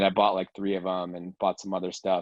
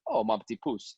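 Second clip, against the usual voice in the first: mock sweet; 12 semitones higher than usual. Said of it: "And I'm like".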